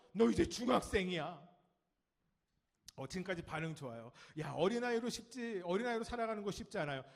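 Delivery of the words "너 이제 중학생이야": loud, lightly acted parental nag; nagging parent. Parent to a sixth-grader, mock nagging. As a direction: press it home like a parent. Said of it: "육 학년이 듣는 소리는 뭐예요?".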